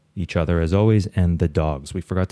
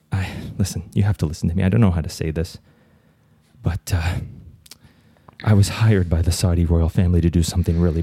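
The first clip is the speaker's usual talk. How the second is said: nervous caller voice. Acted. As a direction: blurt it out like a panicked caller. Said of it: "I'll do both voices".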